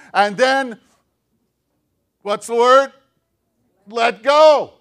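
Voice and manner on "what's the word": ordinary delivery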